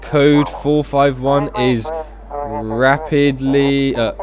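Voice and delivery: slow, deliberate dispatcher announcement; measured, halting dispatch read; radio dispatch. Acted. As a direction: space the words out like a radio bulletin.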